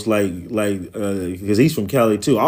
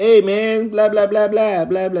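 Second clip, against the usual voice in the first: very high put-on Mexican accent, babbling patter; 11 semitones higher than usual. Describing how some people sound when they come on, imitating a Mexican accent. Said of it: "sounding just like a Mexican".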